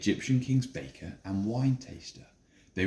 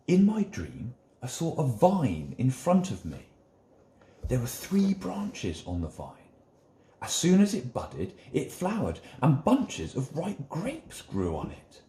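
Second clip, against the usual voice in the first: a lightly raised, eager voice for the wine taster; a storyteller's wine taster, a bit higher than the narration; wine taster telling his dream; 4 semitones higher than usual. Acted.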